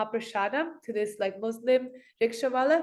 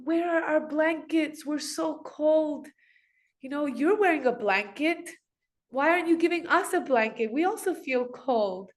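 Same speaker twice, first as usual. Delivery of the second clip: plaintive shivering deities; 5 semitones higher than usual. Acted. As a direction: whimper the complaint like shivering children. Deities complain to priest in dream.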